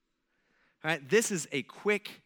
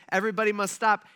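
loud, emphatic acted order; royal command; 3 semitones higher, 6 dB louder, faster than usual. King ordering the builders to stop, loud command. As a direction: issue a raised-voice decree. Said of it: "he issues a command".

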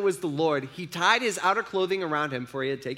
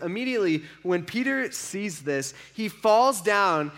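slowed down, "Peter" leaned on; slow it down for weight on "Peter"; slow, weighty retelling; 2 semitones higher than usual. Shown as a demonstration. Preacher repeats the moment to the congregation, slowly. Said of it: "And immediately, when Peter sees this".

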